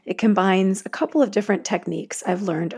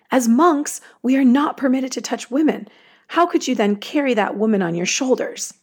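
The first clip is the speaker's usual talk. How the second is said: blurted protest; 4 semitones higher than usual. Acted. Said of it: "he blurted out".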